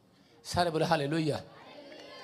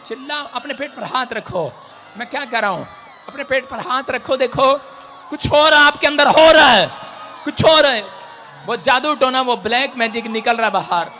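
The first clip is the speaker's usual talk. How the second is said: loud, high preaching commands; full-force preaching; 5 semitones higher, 14 dB louder than usual. Real, not acted. Preacher urging the woman to scream, loud preaching. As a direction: drive the spirit out with shouting.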